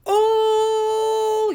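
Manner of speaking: put-on high, loud childish whine of "Ooh"; tattling kid. Little girl running to her mother, whining. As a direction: whine it out like a small kid telling on someone. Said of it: "like how a kid is telling".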